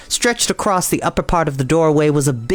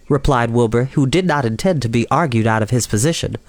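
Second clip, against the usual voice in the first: usual speaking voice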